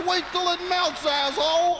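very high shouted mobster punchline; laughing mobster. Acted. Mobster quoting Johnny Salami, high hysterical shout. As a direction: squeal the punchline, nearly losing it.

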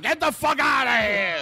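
mock shout. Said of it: "and the guys would".

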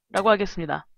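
ordinary talk

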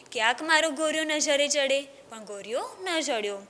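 put-on storytelling voice for children, lively; story narration. A narrator's reading. Teacher reading a village tale to children, storytelling. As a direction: read the tale aloud to a class.

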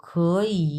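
"খ" flowing into long "ই"; blended model of "খ, ই"; said together. Shown as a demonstration. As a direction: join "খ, ই" as second plus third tone. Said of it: "দুইটা একসাথে বলবো".

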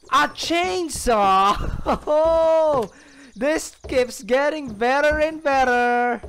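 loud, high, drawn-out delight; thrilled. Real, not acted. Player finding a chainsaw, loud gleeful crowing. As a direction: crow slowly with a laugh in it.

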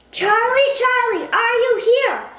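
loud, high summons; calling out. Pretend. Calling the spirit louder on retry.

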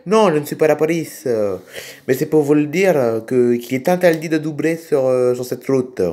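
put-on funny accent, R's turned towards L's; odd accent. Tractor driver warning motorists about overtaking, odd accent. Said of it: "excusez-moi pour mon accent".

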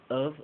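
"of" clipped short as a schwa. Shown as a demonstration. Teacher showing the very short reduced of. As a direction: make "of" tiny and quick. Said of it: "muy cortito".

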